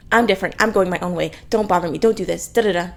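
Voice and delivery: fast, dismissive rattled-off imitation; mock cool, edgy. Reviewer imitating try-hard heroine, mock edgy. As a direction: reel it off as a mock rebel. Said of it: "to be the cool, edgy, like".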